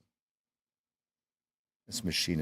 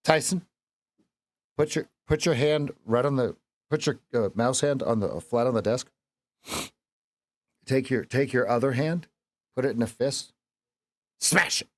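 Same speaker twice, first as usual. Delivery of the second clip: calling instructions; 5 semitones higher, 3 dB louder than usual. Real, not acted. Instructing son on camera.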